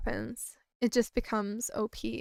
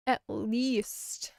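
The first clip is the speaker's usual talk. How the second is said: whispering. Acted. Whispered repeat.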